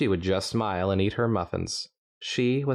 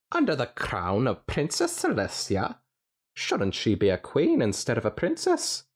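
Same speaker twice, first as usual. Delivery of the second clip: mild Doctor voice; 5 semitones higher than usual. Acted. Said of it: "the stallion questioned".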